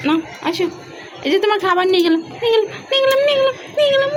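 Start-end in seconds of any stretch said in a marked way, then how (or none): 2.4-4.1 high, sing-song teasing chant. Real, not acted. Owner teasing her parrot by taking its food, high sing-song. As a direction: taunt playfully while snatching the food.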